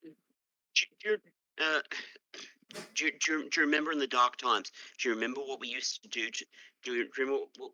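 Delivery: stumbling, faltering retelling; nervous roleplayed story. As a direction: lose the thread, start over and over. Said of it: "can I try and roleplay this?".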